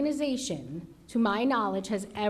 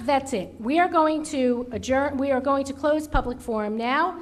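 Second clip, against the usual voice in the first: calm turning angry; 3 semitones higher, 9 dB louder than usual. Real, not acted. Chair loses patience, adjourns forum.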